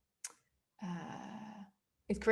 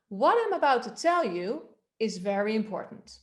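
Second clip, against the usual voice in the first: sing-song rise and fall from "What" onward; melodic; 3 dB louder than usual. Shown as a demonstration. Coach modelling an exercise for the class, melodic. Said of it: "Melody-wise, try this".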